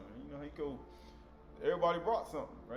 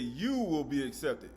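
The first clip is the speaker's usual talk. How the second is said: "You" leaned on, the rest slow; slow, weighty "You will be accepted"; stress on you; 3 semitones lower, slower than usual. Shown as a demonstration. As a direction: hit "You" hard. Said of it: "Notice how I say you".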